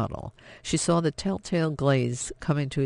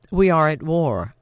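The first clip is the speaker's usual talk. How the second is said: forceful declaration; 2 semitones higher, 6 dB louder than usual. Acted. Daughter defies her father.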